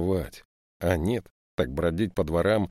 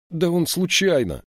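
much higher, louder plea; urgent plea; 12 semitones higher, 6 dB louder than usual. Acted. Yashka defends his friend, high urgent plea. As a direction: jump in to defend him.

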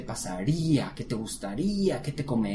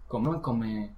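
normal talking voice

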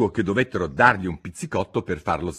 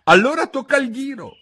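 higher, louder shout; shouted together; 7 dB louder than usual. Acted. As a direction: call out bossily. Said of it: "urlarono insieme".

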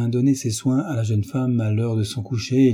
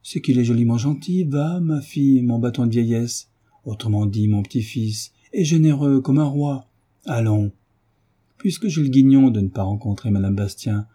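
vieille marquise. Retold or imitated. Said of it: "cette bonne chère dame a ajouté".

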